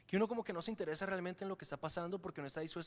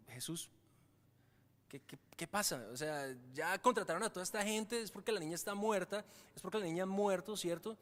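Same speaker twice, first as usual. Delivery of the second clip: doubting listener. Retold or imitated. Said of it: "tú podrías pensar como".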